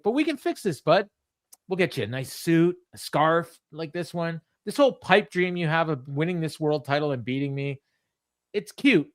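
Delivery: mock him with a smug sneer; lightly voiced heel insult. Mimicking MJF insulting Brody, mildly sneering. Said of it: "He says".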